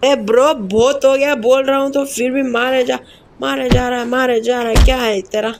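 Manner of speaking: annoyed scolding. Real, not acted. Scolding game character who attacks.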